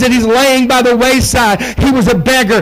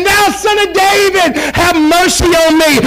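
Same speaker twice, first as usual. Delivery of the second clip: higher shouted beggar's cry on Thou; louder cry; 5 semitones higher than usual. Retold or imitated. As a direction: call it out much louder, pleading. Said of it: "cry out that much louder".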